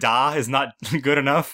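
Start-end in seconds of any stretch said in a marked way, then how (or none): 0.0-0.3 Irish "da". Shown as a demonstration. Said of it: "Just me saying "da".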